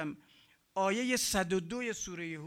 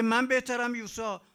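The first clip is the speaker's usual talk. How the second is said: higher, louder mocking boast; boastful Pharaoh; 4 semitones higher, 6 dB louder than usual. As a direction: sneer at Moses from the throne. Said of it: "میگه".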